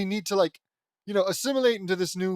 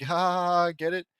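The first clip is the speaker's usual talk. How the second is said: angry rant; 4 dB louder than usual. Real, not acted. Ranting at the fanfic author.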